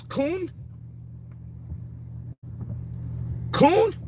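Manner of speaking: can't believe that's all they said; incredulous question. Real, not acted. Fed up with people's one-word reply, incredulous rising voice.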